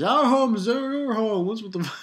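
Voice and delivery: a lightly voiced anime character; mock character voice. Retelling a character's line.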